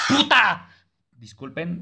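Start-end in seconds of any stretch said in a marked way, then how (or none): 0.1-0.7 high, explosive shout; real jump-scare outburst; startled swearing. Real, not acted. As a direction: yell a curse in sudden fright. Startled by the game.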